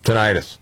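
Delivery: tinnitus as tuh-NIGH-tus; tinnitus, middle syllable like "night"; chosen pronunciation. Shown as a demonstration. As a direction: say tinnitus with a long stressed I. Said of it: "we're gonna stick with".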